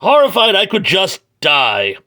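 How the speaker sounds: high, fast mock panic; hammed-up horror. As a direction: overact the guilty wail. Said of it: "He goes".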